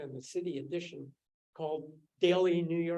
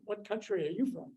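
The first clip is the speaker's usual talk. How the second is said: higher-pitched imitation of a southern drawl; 4 semitones higher than usual. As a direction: put on a light southern US drawl. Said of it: "in her southern drawl".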